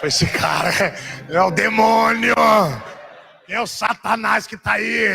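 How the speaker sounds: slow, strained shout with stretched endings; hammed-up cry accusing someone of being the devil; mock denunciation. Preacher acts his reaction to the mind-reading prophet, mock-horrified shout. Acts alarm at having thoughts read.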